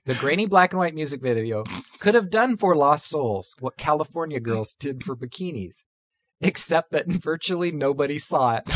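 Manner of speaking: quiet, holding back laughter; suppressing giggles while reading; trying not to laugh. Real, not acted. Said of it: "I gotta hold it together".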